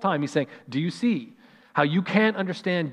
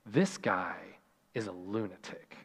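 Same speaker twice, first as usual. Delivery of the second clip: scoffing skeptic; 8 semitones lower, 10 dB quieter than usual. Retold or imitated. Imagined skeptic dismissing Jesus.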